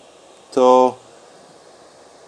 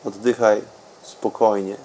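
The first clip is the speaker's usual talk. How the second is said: softer and softer meditation voice; guided meditation; 4 semitones lower, 13 dB quieter than usual. Acted. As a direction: let the voice sink into calm. Deep meditation, fading very soft.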